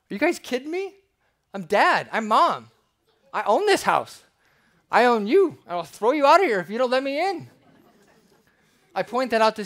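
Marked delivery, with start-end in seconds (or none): 0.1-7.5 high, loud, hurt outburst from a locked-out parent; hurt, shouting. Retold or imitated. Locked-out parent shouting at the kids, hurt and loud. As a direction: let the hurt burst out as a yell. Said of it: "You'd be hurt".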